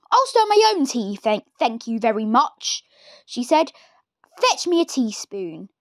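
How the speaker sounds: a hint of a sharp old woman; curt old grandmother, lightly voiced; grumpy Grandma. Grandma's cold reply.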